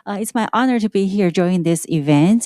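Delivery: muffled behind a face mask; speaking through a mask, muffled. Real, not acted. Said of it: "I'm wearing a face mask because I have a sick".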